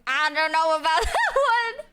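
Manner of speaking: giggling through the doubt; amused skeptical giggle; laughing. Real, not acted. Repeats with laugh.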